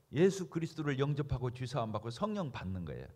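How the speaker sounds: ordinary delivery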